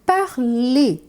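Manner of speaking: parlez ending in a closed é; parlez, sounds like parler; French parlez. Shown as a demonstration. Teacher shows vous parlez sounds like parler. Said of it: "Vejam bem".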